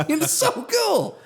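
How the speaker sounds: very high, drawn-out squeal; retold giddy awe. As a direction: stretch it out in hammed-up wonder. Continues gushing over the app.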